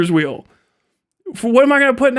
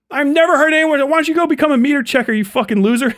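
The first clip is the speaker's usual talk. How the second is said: mock insult; 6 semitones higher, faster than usual. Mocking a meter checker career.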